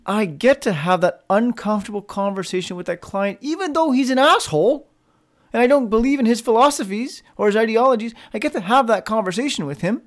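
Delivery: brighter, rising I get to; eager get to, voice lifting; upbeat reframe. Shown as a demonstration. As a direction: say it like a privilege you're glad of. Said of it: "See how that's different".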